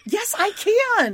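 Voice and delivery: laughing. Real, not acted. Laughing reply about horse bites.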